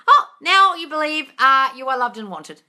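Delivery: mock revelation. Mock revelation after bell.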